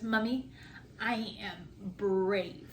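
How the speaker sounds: very slow, drawn-out imitation of a child; retold little daughter. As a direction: quote a small girl with slow, deliberate pride. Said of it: "And then she goes".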